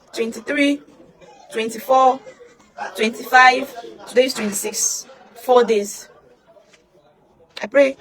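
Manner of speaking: crying. Real, not acted. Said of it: "crying heard".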